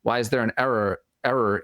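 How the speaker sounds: slight Boston accent. Real, not acted. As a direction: let a Boston accent slip in. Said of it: "my Boston accent's coming through now".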